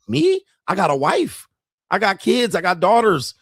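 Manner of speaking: high, incredulous mocking of a rich man; mock incredulous boast. Mocking a rich doctor, high and scoffing. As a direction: scoff like he'd never quit.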